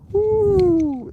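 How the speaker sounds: high, loud whoop; excited whoop. Real, not acted. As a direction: let out a big happy whoop. Excited cheer on live stream.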